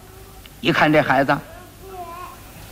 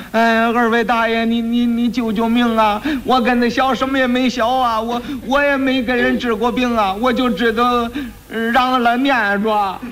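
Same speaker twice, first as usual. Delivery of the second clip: 哭着求; 5 semitones higher than usual. Acted. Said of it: "跪那儿直哭".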